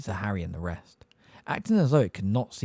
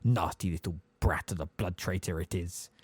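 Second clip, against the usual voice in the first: a softer, lower grumbled aside; audible aside; 3 semitones lower, 5 dB quieter than usual. Acted. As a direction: insult him under the breath, but make sure he hears it. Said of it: "He added perfectly audibly".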